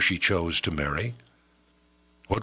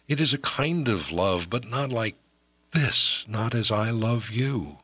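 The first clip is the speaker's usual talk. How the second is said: a higher, earnest woman's voice pouring out her heart; pleading young woman; 4 semitones higher than usual. Acted.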